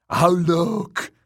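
high, loud fool voice; taunting, high-pitched clown; mocking jester. A narrator's reading. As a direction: crow at a helpless victim. Cruel jester taunts his victim.

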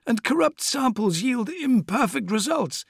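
high, oily schemer's voice; sly apothecary voice. Acted. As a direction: purr it like a sinister surgeon. Fabius the apothecary speaks.

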